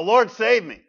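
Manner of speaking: high, loud plea for rescue; desperate cry. Retold or imitated. Preacher voicing a sinner calling out to God, desperate cry. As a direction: cry out like someone in danger. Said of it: "you would cry out as well".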